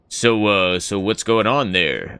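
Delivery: low, hoarse-sounding deep voice; real deep voice. Retold or imitated. Streamer mimics his deep voice to his girlfriend. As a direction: drop way down low and rumble it. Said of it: "I was talking in the real deep voice".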